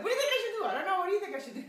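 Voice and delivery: high, loud frantic questions, hammed up; mock panicked pleading. Friend phoning friend, a hammed-up frantic plea. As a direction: play a friend begging for help. Friends calling each other for advice.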